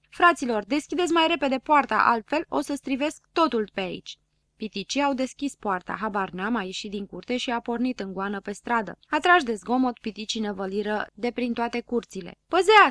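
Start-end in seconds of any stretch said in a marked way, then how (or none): 0.1-4.2 loud, panicked call to open the gate; shouting for help. Acted. Dunno yelling at the little men from the car, loud. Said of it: "striga cât îl ținea gura". 12.5-12.9 high, loud yell to clear the way; loud warning shout. Acted. Dunno warning the crowd from the speeding car, shouted. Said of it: "striga habar n-am".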